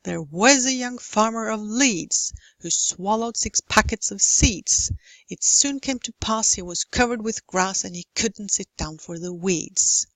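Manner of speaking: limerick read with a strong beat; rhythmic stress. Shown as a demonstration. Teacher reading a limerick to show stress rhythm. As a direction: bounce along the stressed syllables. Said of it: "how we mark stressed syllables".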